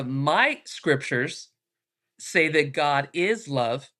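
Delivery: slow, measured retold reply; not yelling. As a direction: state it slowly without raising the voice. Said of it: "So I wasn't yelling at him".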